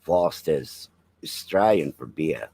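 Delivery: slow, mock Australian ad line; a hint of an Australian beer-ad voice; Australian accent. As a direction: put on a lightly done Australian accent. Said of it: "to speak Australian".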